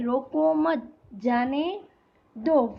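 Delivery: pauses dividing "रोको मत", "जाने" and "दो"; halting demonstration with a pause before "दो"; comma pause. Shown as a demonstration. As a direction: break up the phrase, leaving "दो" on its own. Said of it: "ध्यान से आवाज़ देखना है".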